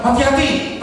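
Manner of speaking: mock startled cry, high-pitched; retold loud warning. Wife blurts a warning to husband, retold cry. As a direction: imitate an involuntary cry of alarm. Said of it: "dia bersuara keras".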